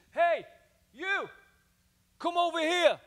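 high-pitched, loud American call; American accent. Acted. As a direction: call someone over in a put-on American accent. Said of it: "That's my American accent".

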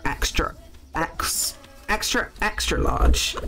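hushed, breathy repeat; whispered aside. Real, not acted. Confessing her size to viewers, whispered. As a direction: whisper it like a guilty secret.

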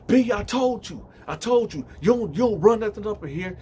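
loud, high-pitched retold tirade; in-her-face anger. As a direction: act out a son confronting his mother. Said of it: "he get in his mama face like".

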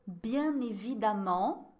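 évidemment said slowly with the em sounding like a; teacher drawing out évidemment for learners; pronunciation demo, slow. Shown as a demonstration. Teacher to students, a slow careful évidemment. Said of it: "Olha a pronúncia".

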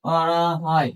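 low, drawn-out dictation in separate chunks; slow dictation. Real, not acted. Teacher gives class the definition to copy, slow dictation. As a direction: dictate slowly and softly, stretching each phrase.

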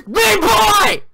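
high, loud scream of despair; anguished scream. Real, not acted. Gamer screaming as Meat Boy dies.

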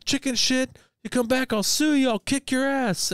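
high-pitched mock ranting; rattled-off threats. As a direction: hurl empty threats in a hammed-up squeal. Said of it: "starts fucking rattling off".

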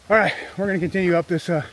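breathless from the uphill climb; winded, talking while climbing; out of breath. Real, not acted. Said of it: "It's hard to talk and climb at the same time".

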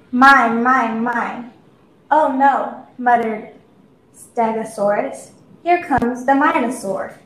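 put-on animated children's storybook reading; story narration. A narrator's reading. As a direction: read it aloud to little kids, pitch rising and falling. Reads a children's story aloud.

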